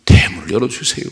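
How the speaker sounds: loud, pleading petition; pleading cry. Retold or imitated. Hannah crying out to God, loud and pleading. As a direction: beg for the womb to open. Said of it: "반복하고 통곡했어요".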